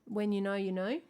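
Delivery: lightly put-on Australian accent; dodgy Australian accent. Shown as a demonstration. Singer previews the song's title, dodgy Australian accent. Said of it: "dipping into a dodgy Australian accent".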